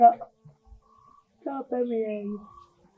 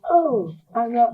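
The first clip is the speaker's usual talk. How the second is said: crying out; 4 dB quieter, slower than usual. Acted. Mother lamenting to her child.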